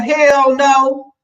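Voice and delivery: high, loud mama outburst; imitated indignant no; mother's flat refusal. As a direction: refuse emphatically, pitch shooting up. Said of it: "My mother was like that".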